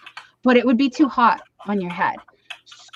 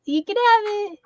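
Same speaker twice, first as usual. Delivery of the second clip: resigned okay; 12 semitones higher than usual. Retold or imitated. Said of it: "And I was like".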